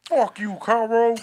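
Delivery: demon voice. Retold or imitated. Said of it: "like a demon".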